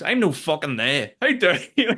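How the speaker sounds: indignant shout rising high on how dare you; mock outrage. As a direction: act offended, blowing up. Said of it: "And he goes".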